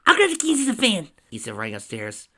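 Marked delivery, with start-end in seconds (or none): 0.1-1.1 high, loud call to the others; urgent call. A narrator's reading. Friend dashing upstairs for van keys, urgent call. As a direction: shout it out high on the run.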